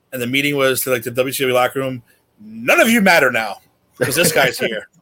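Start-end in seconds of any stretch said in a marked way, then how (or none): 2.4-4.9 slow, drawn-out mock decree; mock announcement. Imagined boss to the locker room, mock declaration. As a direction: lay down the law, hammed up lightly.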